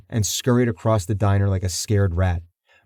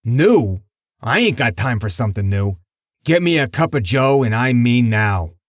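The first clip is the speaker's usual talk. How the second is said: gruff angry mob boss, louder; growled; 2 semitones higher, 3 dB louder than usual. Acted. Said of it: "Lucky growled".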